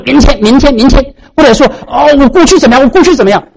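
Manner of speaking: high, insistent mock fretting; mimicked fretting. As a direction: imitate people forever putting things off. Mimics people fretting over time.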